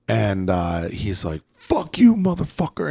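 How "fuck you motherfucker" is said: high-pitched mock fury; imitated angry outburst. Skinny kid cursing back at his challenger, high imitated anger. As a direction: mimic him exploding, pitched well up. Retold angry reply in rehab confrontation.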